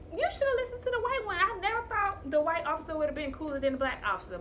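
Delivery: high-pitched, put-out complaint easing down; exasperated aside, starting high; exasperated retort. Retold or imitated. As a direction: grumble it high, in mock disbelief. Her exasperated reaction to officer.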